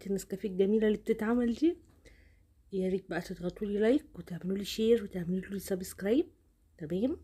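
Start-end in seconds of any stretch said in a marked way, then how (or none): 2.7-7.2 talking with a blocked nose from a cold; stuffy nose. Real, not acted. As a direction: voice thick from a cold. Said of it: "واسفه جدًا على صوتي، البرد". (صوت مزكوم من البرد)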